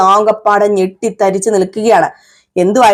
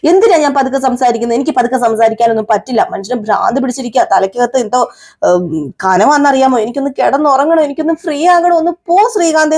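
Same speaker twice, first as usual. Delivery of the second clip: mock exasperated rant. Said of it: "ഒച്ച വയ്ക്കാൻ".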